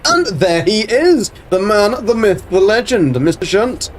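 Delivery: a hint of a ring announcer; announcer intro. Greeting Mister Shunt arriving in chat, mock grand and slow.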